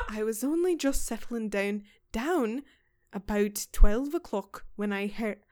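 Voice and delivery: put-on laughing through a light Scottish accent. Podcaster retells the housekeeper's night, laughing Scottish accent. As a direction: keep the brogue while cracking up. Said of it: "I'm just gonna do Scottish 'cause it's easier".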